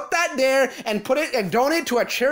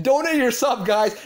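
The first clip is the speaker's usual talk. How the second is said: mock donation shout. Ranter mocks Gerard begging viewers, hammed-up shout. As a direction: bellow it like a pushy streamer. Mocking streamer begging for subs.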